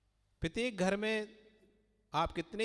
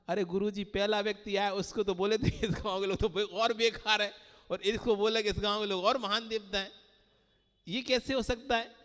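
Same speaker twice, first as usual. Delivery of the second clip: puzzled disciple; 3 semitones higher, 3 dB louder than usual. Retold or imitated. Disciple puzzled by the guru's two answers, protesting. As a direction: object like a confused student.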